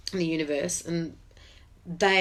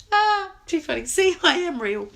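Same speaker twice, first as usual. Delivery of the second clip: laughing it off; 11 semitones higher, 5 dB louder than usual. Real, not acted. Laughs off crying on live.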